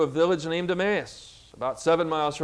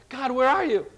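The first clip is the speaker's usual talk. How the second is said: high, raised searching cry; calling out to God; 7 semitones higher, 4 dB louder than usual. Acted. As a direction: call upward as if God has vanished. Acted believer calling for absent God.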